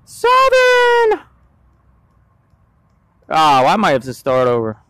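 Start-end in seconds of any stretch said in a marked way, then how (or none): 0.1-1.2 high, stretched ghostly wail. Acted. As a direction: moan the numbers like a spooky ghost. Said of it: "I was trying to do a little ghostly voice".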